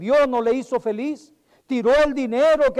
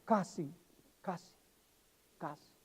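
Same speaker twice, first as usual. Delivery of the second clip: lower, fading from soft to a breath; fading cry; 5 semitones lower, 15 dB quieter than usual. Acted. Agrippa's regret, each casi softer until gone. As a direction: let each casi die away into nothing. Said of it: "él está gritando".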